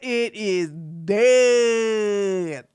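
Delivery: loud, high mock-sorrowful wail; mock mourning. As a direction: cry out in hammed-up grief. Mock mourning over rival's dead channel.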